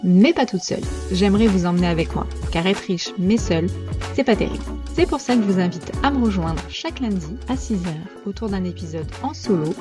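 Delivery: scripted, projected show-intro voice; polished welcome to the show; podcast intro read. Acted. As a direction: invite listeners in like a podcast trailer.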